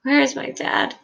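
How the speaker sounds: put-on high, panicked child's cry, not at full volume; narrator's contained scream. A narrator's reading. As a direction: cry out for a missing father, pitched high. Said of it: "Charlie is screaming".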